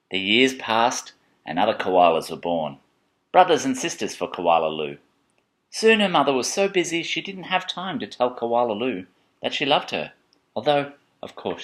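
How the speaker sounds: measured picture-book narration; reading to children. A narrator's reading.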